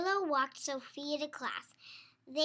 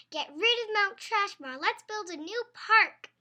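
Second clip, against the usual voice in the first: louder, higher campaign cry; proud campaign slogan; rallying slogan; 6 semitones higher, 9 dB louder than usual. Acted. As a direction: read the sign like a rally. Slogan read off her sign.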